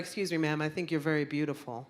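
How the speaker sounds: soft, polite flirting guy; butter her up gently like a shy suitor. Retold or imitated. Stranger hitting on a woman at a bar, softly polite. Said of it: "he was like".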